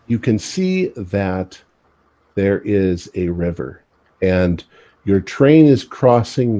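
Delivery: slow, measured narration; game master's scene setting. Acted. Game master tells players what they see by the river, slow scene-setting. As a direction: unfold the sight slowly, phrase by phrase.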